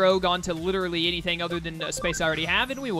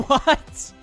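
surprised; 8 semitones higher, 7 dB louder than usual. Real, not acted. Laughing surprise at petting.

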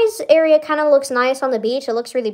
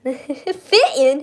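JFK impression; 3 semitones higher than usual. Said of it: "He doesn't talk like that".

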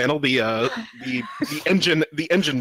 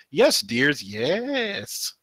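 lightly voiced Boobette; 3 semitones higher, much slower than usual. Character reply read from comic.

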